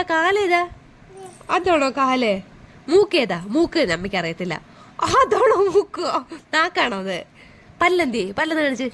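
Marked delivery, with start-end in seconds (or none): 5.0-6.2 slow, drawn-out mock wonder; playful amazement. Real, not acted. Parent reacts to child pointing at nose, playful amazement.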